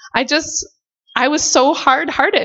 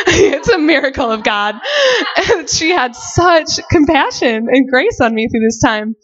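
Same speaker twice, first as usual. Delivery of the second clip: laughing through the words, a touch teary; 3 semitones higher than usual. Real, not acted. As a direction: laugh warmly as you say it. Laughing while praising mentor's kindness.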